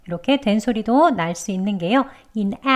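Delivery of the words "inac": inac cut off with a held breath; glottal catch. Shown as a demonstration. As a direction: stop the breath after inac. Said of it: "윽 하고 숨참기 됐죠".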